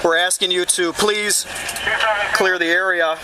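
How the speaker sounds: loudspeaker announcement; blasting sound cannon. Real, not acted. Loudspeaker order to the crowd.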